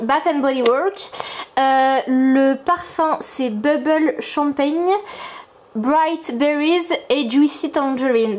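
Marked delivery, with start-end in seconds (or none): 0.0-1.1 clumsy English accent. Real, not acted. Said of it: "mon accent catastrophique". 3.5-8.4 clumsy English accent. Real, not acted. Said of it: "mon accent catastrophique".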